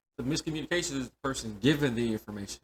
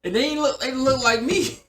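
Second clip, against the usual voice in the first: excited disbelief; 12 semitones higher, 8 dB louder than usual. Real, not acted. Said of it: "laughing disbelief".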